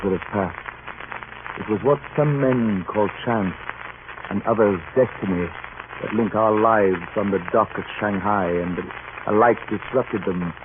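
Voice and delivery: reflective first-person narration of a seafaring tale; thoughtful radio-drama narration, unhurried; story narration. A narrator's reading. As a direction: tell it like a captain remembering. Captain narrates his story over music.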